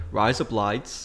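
a hint of broad Aussie accent; lightly put-on Australian vowels; stereotypical Australian accent. Shown as a demonstration. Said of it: "the stereotypical one is".

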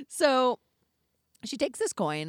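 ordinary delivery

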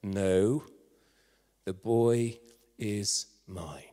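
low, deliberate claim with firm pauses; authoritative. Acted. Nobody stepping forward to claim the baby boy, authoritative. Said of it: "quite authoritatively said".

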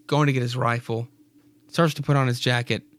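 ordinary delivery

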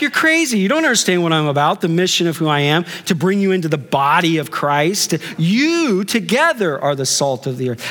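Jesus shaking sense into the church; animated Jesus. Pretend. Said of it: "He's like".

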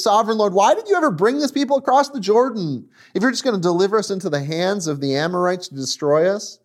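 high, anguished plea, acted out; crying out. Preacher voices Joshua crying out to God, pleading. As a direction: cry out fast and high in protest. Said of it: "he's crying out to God".

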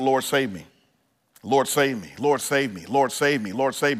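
soft, repeated pleading prayer; hushed desperate plea. Retold or imitated. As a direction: beg quietly over and over, falling each time. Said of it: "He cried out".

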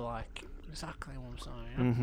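hushed secretive whisper. Acted. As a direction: whisper it conspiratorially. Whispering on the down low.

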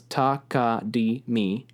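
syllable by syllable; slow takadimi. Shown as a demonstration. Teacher slowly showing the four syllables. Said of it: "So it goes".

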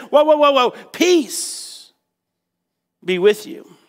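acted soothing, easing down after a pause; calming them down. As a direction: settle a panicked group. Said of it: "he had to calm them down".

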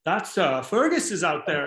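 lilting Kerry brogue, lightly done; a touch of a thick Kerry accent; County Kerry accent. Retold or imitated. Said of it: "thick County Kerry accent".

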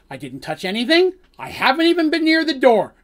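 high, loud, rushed protest of innocence; frantic denial. Acted. Dandy protesting innocence to the guards, high and frantic. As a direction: blurt it out, pleading innocence.

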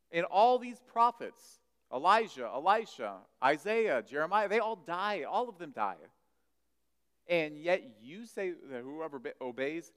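loud, rising indignation; indignant crowd. Acted. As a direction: hammer each prophet's name. Preacher acting indignant crowd.

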